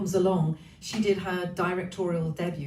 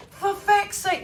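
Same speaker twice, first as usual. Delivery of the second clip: mock exasperated; 11 semitones higher, 4 dB louder, slower than usual. Real, not acted. Swearing at the heavy rain.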